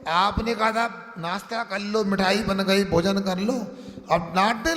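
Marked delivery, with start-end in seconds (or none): 0.1-3.5 put-on complaining child. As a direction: whine like a wronged kid. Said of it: "बड़े बच्चों".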